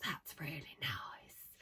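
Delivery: put-on slow, low, hushed common London accent; mum's London accent. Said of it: "a really common accent".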